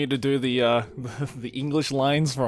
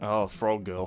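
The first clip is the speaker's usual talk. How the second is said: ordinary talk, nothing marked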